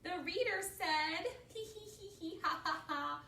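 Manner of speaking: loud, high glee breaking into hee-hee; laughing. A narrator's reading. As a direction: crack up while telling it. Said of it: "They're just laughing".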